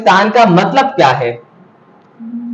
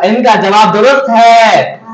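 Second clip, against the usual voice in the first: raised-pitch quiz verdict; triumphant announcement; 4 semitones higher than usual. Real, not acted. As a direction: announce the right answer with a rising build. Quiz host announces correct answer.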